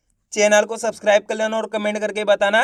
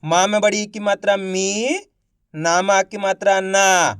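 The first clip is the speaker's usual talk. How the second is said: teacher sounding out; much faster than usual. Shown as a demonstration. Teacher shows pupils how to join letters, patient sounding out. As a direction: explain each letter and its vowel sign, step by step. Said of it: "देखो किस तरीके से है".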